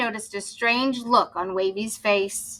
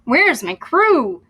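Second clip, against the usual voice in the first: slow, puzzled pirate query; drawn out, wondering to himself; 4 semitones higher, 5 dB louder, slower than usual. Acted. Toy captain alone at night, slow and wondering.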